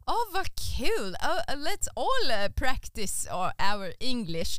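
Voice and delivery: a hint of an eager Swede, slow; lightly imitating keen Swedes practising English; mock eager Swede. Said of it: "And then they go".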